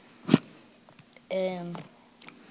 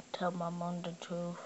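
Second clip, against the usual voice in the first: whispering; 3 semitones lower, 8 dB quieter than usual. Real, not acted. Mock last words, whispered.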